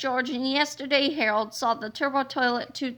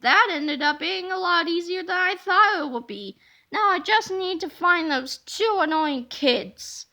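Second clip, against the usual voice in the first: lightly voiced robot toilet; 5 semitones higher, 3 dB louder than usual. Robot toilet villain speaks, whispers plan.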